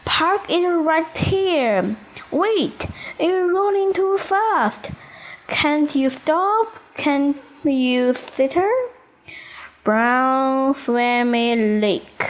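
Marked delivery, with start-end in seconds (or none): 0.1-8.7 high, alarmed monkey shouting as the car rolls; frightened little monkey calling out in alarm; panicky shout. Acted. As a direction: yell in a rising panic. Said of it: "one little monkey shouts".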